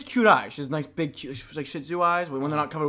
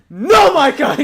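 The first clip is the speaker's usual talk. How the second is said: higher, louder exclamation; exasperated cry; 9 semitones higher, 13 dB louder, much slower than usual. Retold or imitated. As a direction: throw up your hands in disbelief. Dog ran away again.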